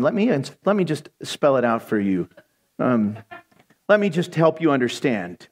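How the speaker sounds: low, patient talking-down to someone; mock-apologetic, patronizing explanation; condescending. Acts out correcting the Lord.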